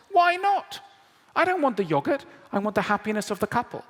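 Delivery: high, loud pleading, then a fast rush; exasperated customer. Retold or imitated. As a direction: argue like a fed-up shopper. Customer arguing with seller.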